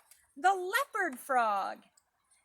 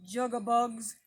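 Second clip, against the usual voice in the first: a slightly louder, croaky bullfrog imitation; bullfrog call; 4 dB louder than usual. Shown as a demonstration. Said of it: "Some people think that it sounds like".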